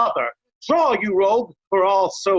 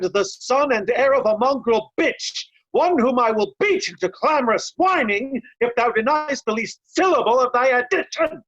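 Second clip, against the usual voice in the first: builds to a raging shout on the last words; furious shout; 4 semitones higher than usual. Acted. Kent threatening Oswald, rising to an angry shout. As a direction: hurl the final insult as a threat.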